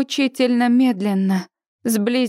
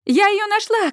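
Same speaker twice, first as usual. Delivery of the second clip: much higher, triumphant cry; excited shout; 10 semitones higher than usual. A narrator's reading. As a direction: shout the find back to the others. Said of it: "кричит Сьюзи".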